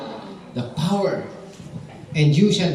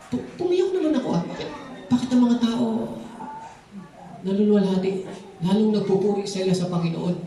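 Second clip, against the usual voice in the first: surprised singer; 4 semitones higher than usual. Retold or imitated. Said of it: "Sabi niya".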